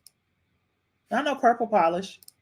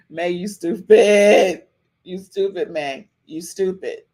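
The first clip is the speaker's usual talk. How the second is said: amused scolding; 4 dB louder, slower than usual. Real, not acted. Laughing at chat comment.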